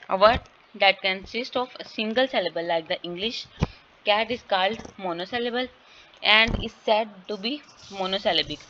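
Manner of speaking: very slow, deliberate reading of English text; slow classroom reading aloud; slow textbook reading. Acted. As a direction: read the definition out word by word. Reads the textbook line aloud.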